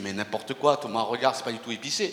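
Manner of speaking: low, hushed, smooth voice.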